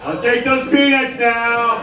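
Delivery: slow and drawn out, laughing through it; dazed, sheepish, stretched slow; stoned meek reply. Retold or imitated. Comic to flight attendant, slow stoned request. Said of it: "only response can be".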